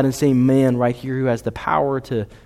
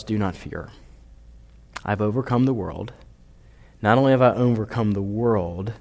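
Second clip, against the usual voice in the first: gentle reassurance; 3 semitones lower than usual. Acted. Jesus quoted gently.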